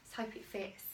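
whispered hopefully under breath; whispering. Real, not acted. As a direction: whisper it to yourself, fingers crossed. Hoping dress fits, said twice.

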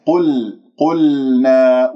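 "قل، قلنا" with the ل cleared of lip rounding; slow recited "قلنا", rounded ق then clear ل; clean lam. Shown as a demonstration. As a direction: release the rounding before ل in "قلنا". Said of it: "لازم أصفيها".

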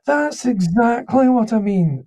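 slow, high-pitched Edinburgh Scottish; Edinburgh Scottish accent. Retold or imitated. Scottish writer approving the actor's suggestion, in an Edinburgh accent. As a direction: draw it out in refined Scottish. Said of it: "less Billy Connolly and more David Tennant".

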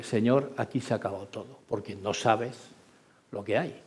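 rezo rápido y mucho más bajo; súplica íntima casi para sí, rápida; oración en voz baja. Retold or imitated. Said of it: "le dije". (piloto reza al Señor en la niebla, muy bajo)

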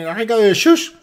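high, loud comic quote; high-pitched mock dialect; film dialect impression.

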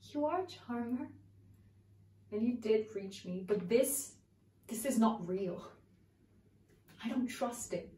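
searching soliloquy. Acted. Actress monologue to Raymond.

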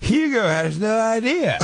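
high, slow words through laughter; laughing. Acted. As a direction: crack up while saying it. Seance bit, laughing.

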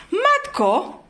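a startled "oh my" at the gifts; surprised gasp. Real, not acted. Mother discovering the gifts under the tree, surprised. Finds Santa's presents by the tree.

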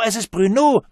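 put-on high, loud child repeating the cry; child calling out. A narrator's reading. The child calls Bruno's name again, high and loud. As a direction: call again like an excited kid. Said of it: "rief eins der älteren Kinder".

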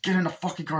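high, forceful command; hammed-up hitman ordering; mock angry order. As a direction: snap the order. Vincent ordering Max into car.

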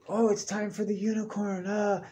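high, showy circus announcer voice; mock announcer. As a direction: announce the unicorn like a ringmaster. Circus announcer introducing unicorn act.

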